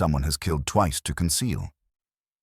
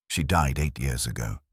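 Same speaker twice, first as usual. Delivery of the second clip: hoarse, strained voice. Acted. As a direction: say it hoarsely, choked. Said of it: "Ashford replied hoarsely".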